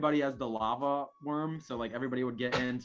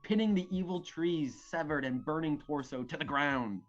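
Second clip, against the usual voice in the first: grand, animated storyteller reading; dramatic story narration. Acted. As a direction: narrate a mock-epic battle tale. Reads battle narration.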